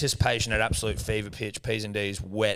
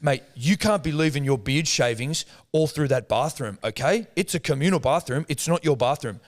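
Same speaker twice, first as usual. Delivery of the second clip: scolding neighbour; 3 semitones higher than usual. Retold or imitated.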